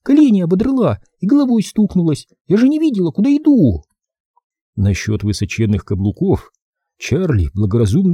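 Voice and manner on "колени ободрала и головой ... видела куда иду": put-on complaining girl. A narrator's reading. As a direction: whine about the bruises.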